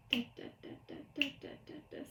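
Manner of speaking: short whispered ticks; soft percussive count-in; setting the beat. Shown as a demonstration. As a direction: whisper a steady, brisk pulse. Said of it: "Here's my beat".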